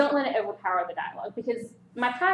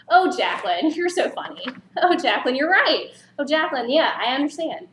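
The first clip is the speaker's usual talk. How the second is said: gushing, higher and louder, name on every line; annoyingly overdone name use; 3 semitones higher, 5 dB louder than usual. Shown as a demonstration. Over coffee, overusing a friend's name, gushing and louder. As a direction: ham up a friend who keeps saying Jacqueline. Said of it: "You see how annoying that is?".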